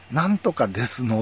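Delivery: ordinary delivery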